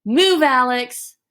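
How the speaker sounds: slow, firm order to move; demanding, not asking; direct command. Shown as a demonstration. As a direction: tell him, don't ask. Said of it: "you are not asking, you are commanding".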